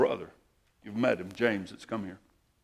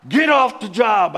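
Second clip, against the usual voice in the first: repeated command; 11 semitones higher, 13 dB louder, slower than usual. Retold or imitated. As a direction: order it again, still forceful. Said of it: "the guy's commanding me".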